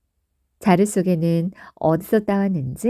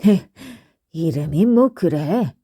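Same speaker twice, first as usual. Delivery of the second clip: a hint of a gruff, slow scoff; scoffing Gogo; 3 semitones lower than usual. Gogo scoffs at the wife's name, lightly voiced slow scoff. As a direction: sniff at the odd name, slowly.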